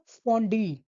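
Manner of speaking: स्पॉन्डी with the last डी held firm; stress on both syllables. Shown as a demonstration. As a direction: give the closing डी as much weight as स्पॉन. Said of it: "जोर दे के बोलते हैं". (आख़िर में भी ज़ोर दे के)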